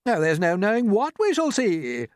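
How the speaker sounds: high, eager call; excited cry. Acted. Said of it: "cried the centipede".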